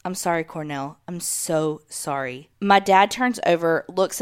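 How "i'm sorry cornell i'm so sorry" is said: hushed retelling of a mom's apology; soft, low-key near-whisper, slowing at the end. Retold or imitated. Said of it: "She says in a whispering voice".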